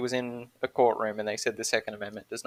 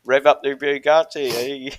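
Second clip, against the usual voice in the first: loud mock British geezer shout-out; broad British accent, hammed up for the joke; British hick accent; 4 dB louder than usual. Topping off the British meme riff, hammed-up geezer accent. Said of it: "the, the British hick".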